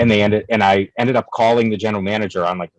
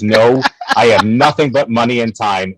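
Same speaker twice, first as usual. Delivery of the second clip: mock furious vow; 2 semitones higher, 6 dB louder than usual.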